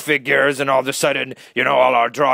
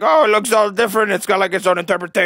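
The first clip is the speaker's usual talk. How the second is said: gushing; 7 semitones higher than usual. Retold or imitated. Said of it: "everybody's like".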